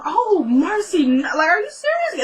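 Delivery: high, drawn-out mock delight; imitated congratulations. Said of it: "they're kinda congratulating her".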